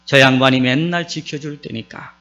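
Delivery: Psalm 23 recited in Gyeongsang dialect, slowed a little; Gyeongsang dialect recital. Pretend. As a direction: recite it like a Gyeongsang grandpa, lightly. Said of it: "경상도 사람들이 이 시를 이렇게 읊습니다". (가볍게 흉내 낸 경상도 사투리 낭송)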